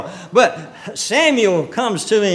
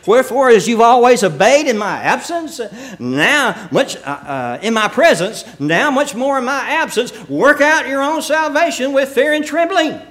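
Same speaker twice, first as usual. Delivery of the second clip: raised preaching voice, climbing higher; scripture declamation; 3 semitones higher than usual. Acted. Preacher quoting Paul to the congregation, ringing declamation. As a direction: declaim the verse, building in pitch to the end.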